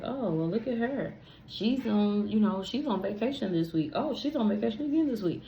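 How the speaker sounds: high, envious muttering; mock envy at a friend's trips; jealous inner voice. Comparing herself to a friend on vacation, mock envious.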